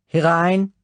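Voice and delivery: high, loud German command through a door; called out. Acted. The Count calls Bond in from behind the door, loud high bark. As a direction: call the visitor in, sharply and loudly.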